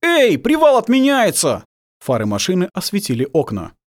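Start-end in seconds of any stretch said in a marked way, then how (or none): 0.0-1.6 slow loud call into the next room. Acted. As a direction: shout the alarm across the flat. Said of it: "внезапно крикнул в комнату".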